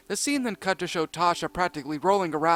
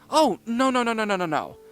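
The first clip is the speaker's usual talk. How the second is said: giggling; 6 semitones higher, 4 dB louder than usual. A narrator's reading.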